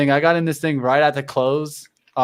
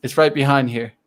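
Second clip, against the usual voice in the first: ordinary delivery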